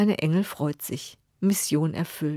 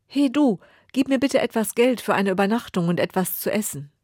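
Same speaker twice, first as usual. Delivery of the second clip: calling out; 3 semitones higher, 3 dB louder than usual. Acted. Beggar calls out to king.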